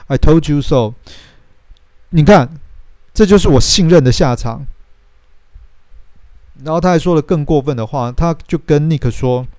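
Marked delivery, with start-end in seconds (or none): 0.1-4.7 更高更响，带着怨气; 一副“我早就说过”的气话; 更生气地说. Retold or imitated. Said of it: "就更生气的说". (凯特更生气地对尼克甩出气话)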